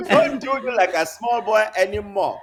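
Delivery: put-on Nigerian accent. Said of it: "in a Nigerian accent".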